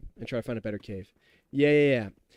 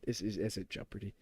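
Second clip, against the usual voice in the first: muttered aside; 6 semitones lower, 12 dB quieter than usual. Real, not acted. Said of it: "drops voice on repeat".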